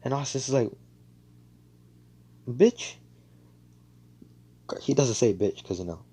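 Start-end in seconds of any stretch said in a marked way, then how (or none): 2.5-2.9 higher, louder rising jab; snide retort. Retold or imitated. Asta answering Noelle's bragging, snide rising jab. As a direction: toss it off as a jab.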